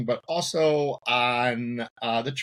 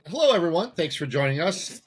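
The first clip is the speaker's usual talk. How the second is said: show intro demo; 5 semitones higher than usual. Shown as a demonstration. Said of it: "I would start with".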